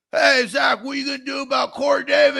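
mock pestering shout, rushed; mocking chat heckler. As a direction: imitate viewers clamoring in the chat. Acting out the viewers' chat messages.

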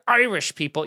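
"Irish" hit hard; stress on Irish. Retold or imitated. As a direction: imitate a pointed emphasis on "Irish". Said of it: "he emphasized it. It was a hard".

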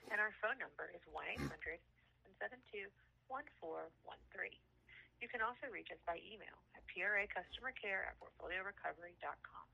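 phone menu voice. Acted.

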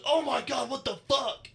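high-pitched imitation of amazed onlookers. Onlookers gawking at an anime tattoo in progress, amazed. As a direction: mimic stunned fans, voice jumping way up.

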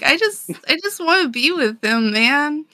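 high-pitched whiny retold plea; mock sad princess. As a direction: play up a pouty, sad princess. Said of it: "she's real sad".

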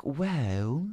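soft British lilt, rising; imitated Mary Poppins-like landlady, quiet; pleasant Englishwoman. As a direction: say it sweetly in a put-on English accent. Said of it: "she just sounds like Mary Poppins".

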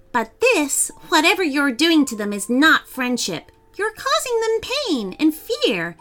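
bold, high-pitched storybook heroine; scolding little girl. Acted. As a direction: lecture the dragon without fear. Amy scolds the dragon.

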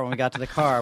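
normal talking voice

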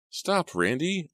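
high, slow, drawn-out plea; pleading. A narrator's reading. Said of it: "I pleaded".

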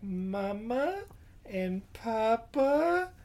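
put-on slow, high little girl voice. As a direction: spell it out like a sad child. Orphan girl spelling out words.

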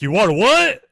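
loud, high disbelief; incredulous shout. Retold or imitated. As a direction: blurt it out in shock. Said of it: "He's like".

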